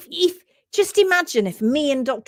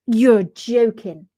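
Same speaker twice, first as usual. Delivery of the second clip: slow, loud Bristolian disbelief; Bristolian accent; 6 dB louder, much slower than usual. Pretend. Imagining the stunned doctor's reply, in a Bristolian accent. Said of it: "in such a Bristolian accent".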